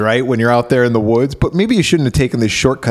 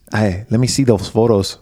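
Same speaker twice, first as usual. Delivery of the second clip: lower-pitched imitated Hispanic accent; Pepe; 4 semitones lower, faster than usual. Janitor asking to see photos, imitated Hispanic accent. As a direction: put on a light Hispanic accent. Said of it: "He talks like this".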